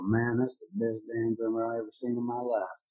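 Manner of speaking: put-on light, imperfect Southern accent of a converted skeptic. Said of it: "my attempt at a Southern accent".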